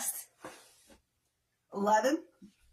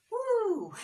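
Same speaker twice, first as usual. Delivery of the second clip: woo; 10 semitones higher than usual. Real, not acted. Cheer after finishing set.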